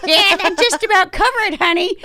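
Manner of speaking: imitated high giggle running through the words; laughing doctor. Doctor amused by screaming patient, mock laughing reply. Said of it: "actually starts laughing and she goes".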